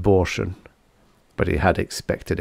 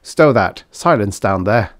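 barked order; 4 dB louder than usual. Acted. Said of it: "Fisk barked".

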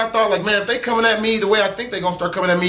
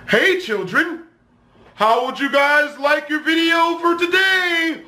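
put-on kids' show host; 5 semitones higher than usual. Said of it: "talking like that nigga in the striped shirt off the Blue's Clues".

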